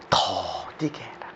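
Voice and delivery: low, very slow 더디게 with a long-held first syllable; drawn-out slowness. Shown as a demonstration. Preacher urging people to be slow to anger, drawn out. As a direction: stretch 더디게 out to sound slow. Draws out "slowly" to enact it.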